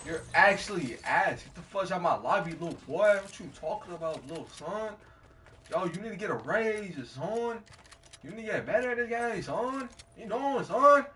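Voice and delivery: high furious trash-talk yelling. Real, not acted. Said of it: "I'm yelling right now".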